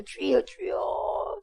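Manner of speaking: slow drawn-out shout of "주여"; crying out to God. Acted. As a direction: call out to the Lord in desperation. Acted prayer of a repentant sinner.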